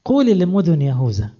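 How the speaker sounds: loud proclamation; loud, urgent herald's call; calling out insistently. Acted. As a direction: cry the verse out to whole cities. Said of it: "صرخ، ارفع صوتك".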